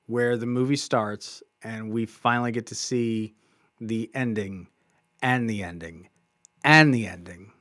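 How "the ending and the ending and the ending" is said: "ending" repeated in separate, deliberate beats; emphatic repetition. Real, not acted. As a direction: space out every "and the ending" with pauses. Repeats endings lining up for effect.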